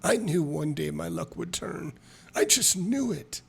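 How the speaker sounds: lightly voiced awestruck drunk; marveling drunk halfling.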